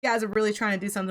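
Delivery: mock indifferent "eh"; nonchalant. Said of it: "nonchalant kinda approach to it".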